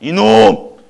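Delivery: loud retold angry yell; mock furious shout; angry outburst. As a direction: burst out like an offended, fuming official. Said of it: "열받은 거예요".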